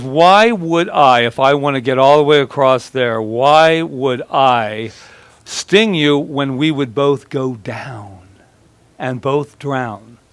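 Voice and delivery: slow, drawn-out coaxing plea; a lightly voiced scorpion talking the frog round; persuasive scorpion. Scorpion slowly coaxing the frog to carry him, drawn out.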